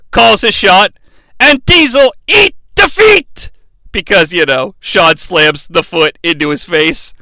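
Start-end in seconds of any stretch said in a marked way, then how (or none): 1.4-3.5 high, hammed-up commentator call; excited play-by-play call. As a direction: call the big hit like an announcer. Calls the big move as commentator.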